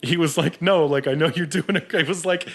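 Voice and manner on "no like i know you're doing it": self-convincing boss. Retold or imitated. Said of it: "he was talking himself into".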